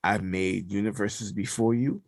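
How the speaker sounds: measured decree with weighty pauses; All Father's voice. Retold or imitated. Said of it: "he said the All Father".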